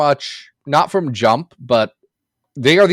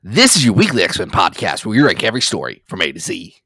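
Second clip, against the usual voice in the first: a lightly put-on shock jock radio voice, fast; radio host voice; 5 semitones lower, faster than usual. Host opening the podcast in a mild mock radio voice. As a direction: hype the show open like a morning radio host. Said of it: "this accent, which isn't anything".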